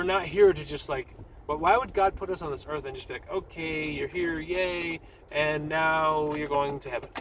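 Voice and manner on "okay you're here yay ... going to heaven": slow, drawn-out mock welcome; half-hearted pretend celebration; mock cheer. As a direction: stretch each word in an idle singsong. Mock God greeting people idly.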